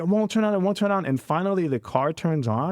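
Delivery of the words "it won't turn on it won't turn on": high-pitched imitated fretting; stressed cousin. Cousin trying to start the car, mimicked stress. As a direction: repeat it high, as a driver fighting a dead key. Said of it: "the stress in his voice".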